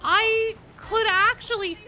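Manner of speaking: very high, very loud screaming rage; furious shriek. Real, not acted. Gamer raging at pox bursters, shrieking. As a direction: scream it out in pure fury.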